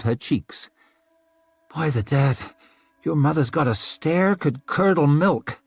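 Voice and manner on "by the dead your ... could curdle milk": rough northern woman. Acted. Rika after the Queen leaves.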